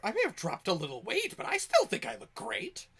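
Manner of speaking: high, loud character voice; offended floating corpse. Acted. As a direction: play the insulted corpse defending its looks. Insulted floating corpse answers in character.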